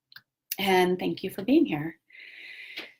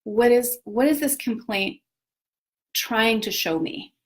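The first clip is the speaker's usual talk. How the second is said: a lightly higher, curious oh wow; mock curious wonder; 3 semitones higher than usual. Meeting your own complaint, lightly curious wonder. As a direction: greet the complaint with interest. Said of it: "is go like".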